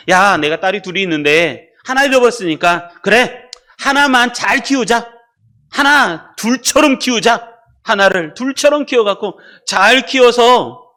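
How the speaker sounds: slow, mock-resolute proposal; lightly acted parent deciding. Preacher imagines parent settling for one daughter, mock resolve. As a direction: reason it out slowly, lightly in character. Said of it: "그분이 그러겠냐고요".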